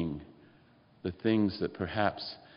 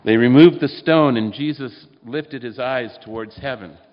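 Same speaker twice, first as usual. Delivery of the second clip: dramatic narration; 3 semitones higher, 11 dB louder than usual. A narrator's reading. Climax of the reading.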